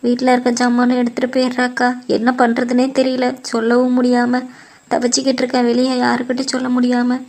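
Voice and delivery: mildly tearful, even-pitched lament; acted tearful complaint. Upset younger woman confides family trouble to older friend, mildly tearful. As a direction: pour out your troubles with a touch of crying. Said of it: "ஏன்டி அழுகுற".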